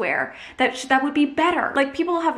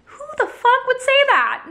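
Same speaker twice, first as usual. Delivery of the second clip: real exasperation; 12 semitones higher, 5 dB louder than usual. Real, not acted. Exasperated at imagined hater comments.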